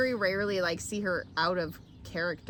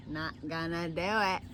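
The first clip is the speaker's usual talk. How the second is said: George Bush impression; 3 semitones lower than usual. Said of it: "Oh, George".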